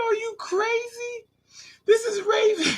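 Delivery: very high, drawn-out tearful squeal; hammed-up high-pitched bawling; mock crying protest. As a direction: wail it like a caught cheat. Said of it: "he used to start crying".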